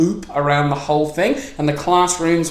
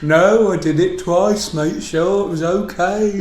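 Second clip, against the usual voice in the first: slow, laughing Midlands doctor voice; Midlands accent; 3 semitones higher, slower than usual. Retold or imitated. A doctor and patient skit, laughing Midlands accent. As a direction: play a Midlands doctor with a dry drawl. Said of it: "That's pretty good Midlands".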